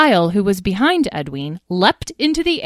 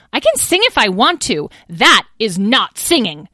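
higher, louder bickering; squabbling; 4 semitones higher, 6 dB louder than usual. Acted. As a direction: argue back hotly. Sibling quarrel.

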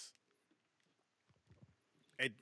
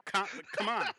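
hyped-up alarm; 3 semitones higher than usual. Retold or imitated. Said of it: "me, I'd be".

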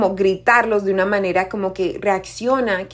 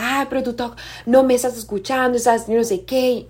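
mock exasperated complaint, pitched up; quarrelling partner; 4 semitones higher than usual. One partner complains to the other mid-fight, mock quarrelling. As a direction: act out an aggrieved partner's protest. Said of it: "una pareja está acá gritando".

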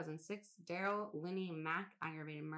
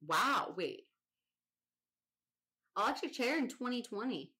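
loud, higher burst of disbelief; shocked; 6 semitones higher, 6 dB louder than usual. Real, not acted. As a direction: stop short, stunned by the date. Shocked at recent electric chair.

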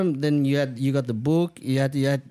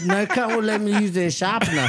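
laughing mimic; 8 semitones higher than usual. Mocking classmate's refusal, laughing.

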